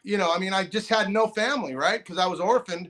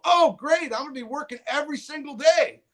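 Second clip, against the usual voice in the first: mock cheerful; 5 semitones higher than usual. Cheerful reply to counselor's challenge.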